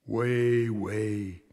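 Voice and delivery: slow whispered confession, fading away; hushed whisper. Acted. Father kneeling by his sleeping son, remorseful whisper. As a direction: whisper so the sleeping boy won't wake.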